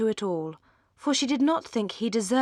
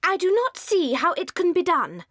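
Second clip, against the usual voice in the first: startled; 9 semitones higher, 4 dB louder than usual. Acted. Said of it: "Fanny was startled".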